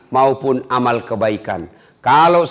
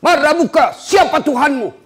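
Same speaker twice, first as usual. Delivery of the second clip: much higher, stern angel voice; questioning angel; 12 semitones higher than usual. Acted. Angel questions the faithful dead man, high and stern. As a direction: ask it from on high, firm. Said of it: "datang ditanya".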